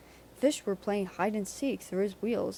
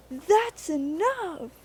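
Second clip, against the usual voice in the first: higher, louder, slow frantic hiss; 9 semitones higher, 6 dB louder, much slower than usual. A narrator's reading. Frantic Percy orders the trucks to stop. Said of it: "he hissed".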